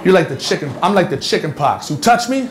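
mocking quote. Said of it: "You said to Surf".

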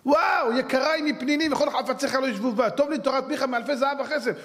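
high, rapturous exclamation; acted high-pitched delight; delighted learner. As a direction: marvel aloud, carried away by the learning. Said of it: "כולו נהנה מהלימוד".

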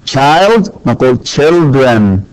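put-on children said slowly, CHIL-dren with a clear r; slow model of child and children; careful pronunciation. Shown as a demonstration. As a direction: spell out children syllable by syllable. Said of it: "ننتبه للنطق أيضًا".

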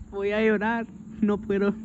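high-pitched whine, near tears; mock tearful. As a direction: whine it high as if about to cry. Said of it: "se me quieren salir las lágrimas". (quejido agudo, fingiendo llanto)

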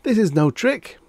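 high, loud, urgent denial; frantic protest. A narrator's reading. Reggie assuring suspicious Mister Demise, frantic and high. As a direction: protest urgently, pitched well up.

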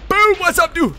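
high, loud taunting greeting; gleeful battle shout. Real, not acted. Gamer springing on an enemy player, gleeful shout. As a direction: pounce on them with a yell.

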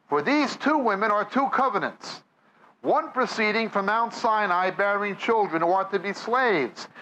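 ordinary talk, nothing marked

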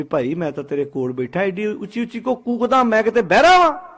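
mildly angry dad, rising in pitch to an indignant question; annoyed father. Acted. Father scolding his shouting child beside him, annoyed. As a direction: act out an exasperated father. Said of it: "ਪਾਪਾ ਅੱਗੇ ਗੁੱਸੇ 'ਚ ਪਵੇਗਾ".

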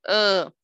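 teacher modelling "Uh"; half-open vowel. Shown as a demonstration. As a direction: say "Uh" as an unclear a, mouth only partly open. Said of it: "no tan claro, sin abrir tanta la".

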